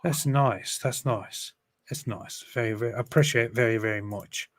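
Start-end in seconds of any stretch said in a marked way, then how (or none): 0.0-2.4 repeat, softer each time to a whisper; fading repeat. Acted. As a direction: let it fade out.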